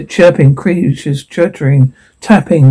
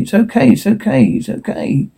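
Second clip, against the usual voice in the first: soft reassurance starting high, sinking to near-whisper; anxious soothing; 5 semitones higher, 5 dB quieter than usual. Acted. Character comforts through whimpers, anxious soothing. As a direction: soothe shakily, fading away with each repeat.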